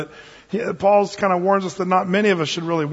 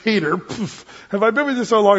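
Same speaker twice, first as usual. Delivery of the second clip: playful ribbing between pals, quicker and lifted; joking Jesus; 3 semitones higher than usual. Retold or imitated. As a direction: tease a friend with a light shove. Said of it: "pushes him on the shoulder".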